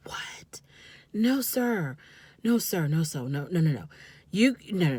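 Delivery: whispered "What?", then low, hushed "no, sir" over and over; hushed shocked refusal. Retold or imitated. Vlogger mimics her own stunned reaction to the outburst, hushed and disbelieving. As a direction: shake your head in hushed disbelief.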